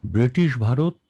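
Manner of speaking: ব্রিটিশ ভারত enunciated clearly; careful teacher's ব্রিটিশ ভারত; clear pronunciation demo. Shown as a demonstration. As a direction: model ব্রিটিশ ভারত with every sound distinct. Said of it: "এই উচ্চারণটা স্পষ্ট করেন".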